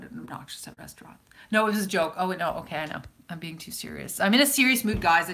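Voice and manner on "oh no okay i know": normal talking voice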